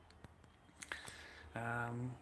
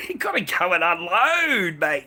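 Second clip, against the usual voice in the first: laughing; 4 semitones higher, 11 dB louder than usual. Real, not acted. Repeats line laughing and louder.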